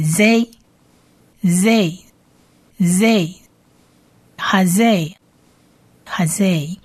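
slow, spaced-out repeats of "z", then "hazeh"; teacher modelling "hazeh" slowly; syllable-by-syllable demo. Shown as a demonstration. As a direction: build "z" up into "hazeh", pausing between each. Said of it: "所以z".

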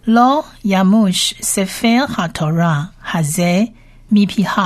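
measured Hebrew model reading; recitation for learners. Shown as a demonstration. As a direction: read the verse in separated word groups. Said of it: "我们先把整节念几遍".

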